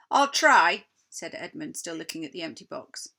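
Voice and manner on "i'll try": louder, eager reply; eager boy. Acted. Edmund answers the queen, eager and loud. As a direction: answer quickly, distracted.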